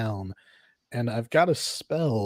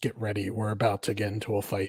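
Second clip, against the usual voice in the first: quiet, hushed murmur; 2 semitones lower, 4 dB quieter than usual. Turning to the others before a fight, tell them quietly. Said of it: "I'll say quietly to them".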